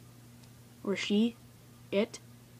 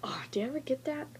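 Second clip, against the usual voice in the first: whisper; 3 semitones higher, 5 dB quieter, faster than usual. Real, not acted. Eyes watering after yawn.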